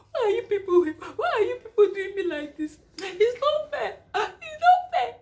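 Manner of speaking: half-laughing, half-crying complaint; wailing while laughing. Retold or imitated. In labor, protesting to the nurses with a laughing wail. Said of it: "You were like".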